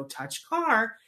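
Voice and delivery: mock stiff, over-deliberate command; weird deliberate therapist. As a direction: imitate a robotic drill instruction. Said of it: "they say it in that really weird".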